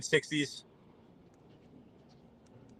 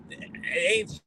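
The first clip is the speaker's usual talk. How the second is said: mock puzzled; 14 semitones higher than usual. Mock puzzled rant about weather.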